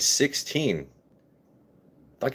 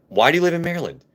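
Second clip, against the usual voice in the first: mock Southern Texan twang, pitched much higher; Southern Texan accent; 8 semitones higher, faster than usual. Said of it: "Everett's was more like".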